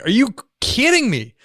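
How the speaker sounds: high, frazzled, overwhelmed protest; husband protesting another baby, high and frazzled; exasperated disbelief. Retold or imitated. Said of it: "I'm like".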